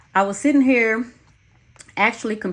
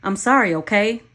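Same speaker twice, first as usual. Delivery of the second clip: exasperated apology; 4 semitones higher, 4 dB louder than usual. Acted. Pleading in a quarrel.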